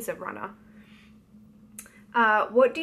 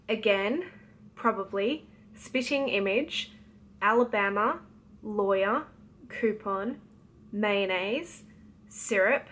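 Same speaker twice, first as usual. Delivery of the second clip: reading word list. Shown as a demonstration. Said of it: "go through all of the words".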